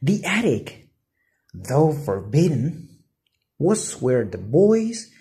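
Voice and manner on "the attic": plain reading voice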